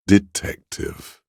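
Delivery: high, slow, drawn-out syllables; high lingering word, each syllable drawn out; lingering call. Acted. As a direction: stretch the word out high and let it hang. Word left lingering in the air.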